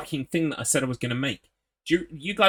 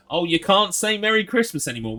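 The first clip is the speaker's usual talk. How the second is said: higher-pitched mock whining; mocking complaint; 6 semitones higher than usual. Streamer making fun of Christmas complainers, in a higher mocking voice. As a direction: parody the yearly grumblers, pitched up. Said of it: "I'm making fun of the fact".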